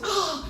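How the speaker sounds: high, soft sigh of delight; airy delighted "ah"; enchanted sigh. Retold or imitated. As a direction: sigh "ah" as if smitten. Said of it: "My mood is just".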